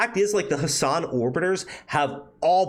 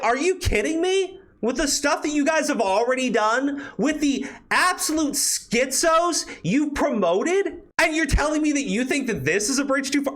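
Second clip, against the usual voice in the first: exasperated rant; 10 semitones higher than usual. Real, not acted. Ranting at critics.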